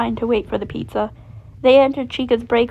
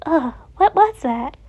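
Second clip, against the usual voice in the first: slurred; 5 semitones higher, slower than usual. A narrator's reading. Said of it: "Chica slurred".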